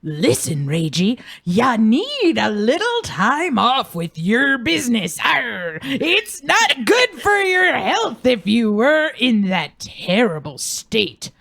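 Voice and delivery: put-on old grandpa voice. Grandpa pirate-like voice.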